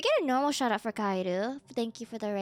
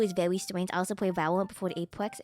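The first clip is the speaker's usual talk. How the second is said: lightly voiced deep uwu; baby-talk the consonants, uwu style; 6 semitones lower than usual. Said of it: "I'm not doing Uwu voice".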